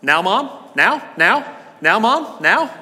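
put-on high, rising child's nagging; impatient little boy. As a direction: nag like an eager kid. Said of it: "he kept going".

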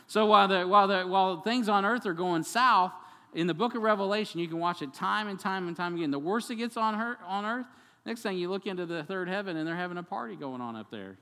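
loud and high, preaching with rising excitement; excited preaching. Real, not acted. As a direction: lift the room with joy.

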